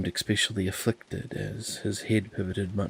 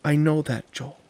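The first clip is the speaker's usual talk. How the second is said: higher and louder, wounded; hurt protest; 8 semitones higher, 7 dB louder than usual. Acted. Andy protests to Joel that she cares, high and loud. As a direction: push back, stung.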